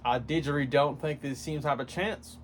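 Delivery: put-on a light, joking Australian accent; mock Australian accent. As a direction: toss in a hint of Australian. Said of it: "Why am I doing an Australian accent?".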